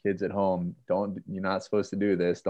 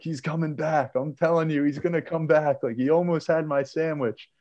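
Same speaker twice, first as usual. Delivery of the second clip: retold freaked-out warning; 7 semitones higher than usual. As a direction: re-enact frantically warning everyone he'll return. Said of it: "I'm all freaked out".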